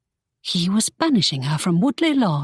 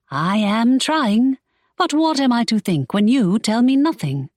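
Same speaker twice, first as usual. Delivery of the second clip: put-on pleading young woman; Imogen pleading; 5 semitones higher, 3 dB louder than usual. Imogen answering Draco, higher and pleading.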